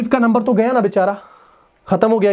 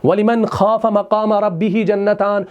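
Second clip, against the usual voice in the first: Quranic recitation; slower than usual. Shown as a demonstration. Quotes a Quran verse.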